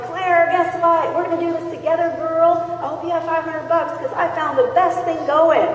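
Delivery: rallying her best friend, excitedly. Retold or imitated. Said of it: "She's like".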